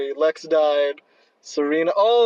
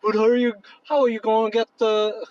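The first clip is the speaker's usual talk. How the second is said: put-on slightly higher, unconvincing British accent; attempted British accent; 4 semitones higher than usual. Podcaster voicing Damon asking a question, shaky British accent attempt. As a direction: try on a bad British accent. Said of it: "that's not a good accent".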